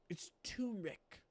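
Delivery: soft secret-telling voice; hushed reveal. Shown as a demonstration. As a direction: let them in on a secret. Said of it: "reveals the secret ingredient".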